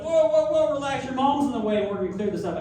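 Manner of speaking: high, loud mock alarm easing down; hammed-up flustered official; retold alarmed placating. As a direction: frantically try to calm someone down. VP retold calming fierce sister.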